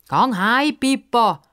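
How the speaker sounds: high mock shout at the girl; calling out. Fat boy Bruno sending Pippa away, calling out. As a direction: tell her to go home, dismissive. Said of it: "ruft der dicke Bruno".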